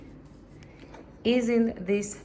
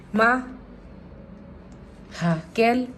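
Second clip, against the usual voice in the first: yelling across the room; 4 dB louder than usual. Real, not acted. Calling mother again.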